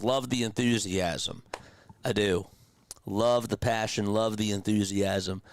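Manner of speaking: slow, drawn-out mock approval; sarcastic. Real, not acted. Streamer answers a gloomy chat message, sarcastically. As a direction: praise it without meaning it. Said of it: "I mean, I'm being sarcastic".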